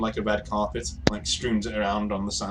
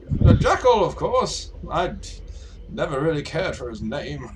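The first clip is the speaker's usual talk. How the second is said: airship gentleman; 6 semitones higher than usual. Acted. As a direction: answer airily in a lofty high pitch. Game master plays airship gentleman.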